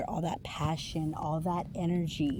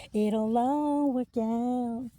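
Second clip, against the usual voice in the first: reassuring; 5 semitones higher, much slower than usual. Real, not acted. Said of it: "It will eventually work out".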